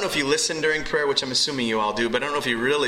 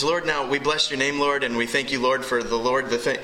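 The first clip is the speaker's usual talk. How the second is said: mock repetitive prayer. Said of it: "what we do in prayer".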